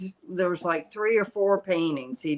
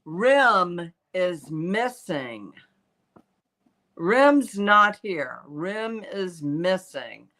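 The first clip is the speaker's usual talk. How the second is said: slow spirit wail; slower than usual. Retold or imitated. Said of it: "she said".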